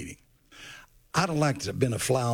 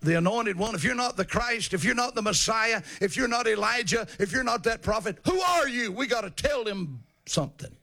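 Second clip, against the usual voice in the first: questioning priests; 9 semitones higher than usual. Retold or imitated. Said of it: "They said".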